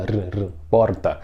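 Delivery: porta with a trilled R, rolled r r first; rolled R demo. Shown as a demonstration. Teacher imitates speakers who roll the R in porta. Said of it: "Que até enrola".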